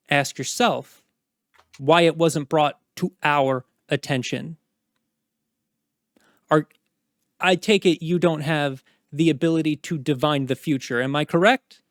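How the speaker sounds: forceful, hammered key words; stern dressing-down. Acted. Commander scolding knight over missed request, stern and forceful. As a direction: rebuke a subordinate with pointed emphasis.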